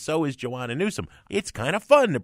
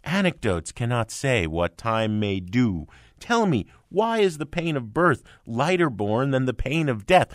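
sneering recital of overwrought lyrics; mocking recital. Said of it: "these lyrical zingers you're talking about".

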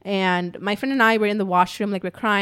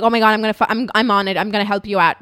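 urgent sympathy; 5 dB louder, faster than usual. Retold or imitated. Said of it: "Show us some sympathy".

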